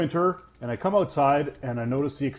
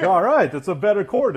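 laughing; 6 semitones higher, 5 dB louder than usual. Retold or imitated. Amused reaction to a longer cord.

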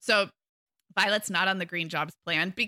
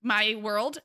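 smug parent; 4 semitones higher, slower than usual. Retold or imitated. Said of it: "And I pretty much say".

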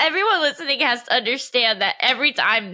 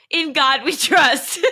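slow, giggling sign-off; laughing catchphrase; slower than usual. Real, not acted. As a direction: drag it out through laughter.

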